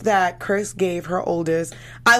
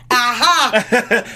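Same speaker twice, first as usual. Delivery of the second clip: loud, higher comic "eureka"; mock triumphant discovery; 4 semitones higher, 7 dB louder than usual. Imitating Kim finding a gift in her closet, mock triumph. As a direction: burst out as if you've found it.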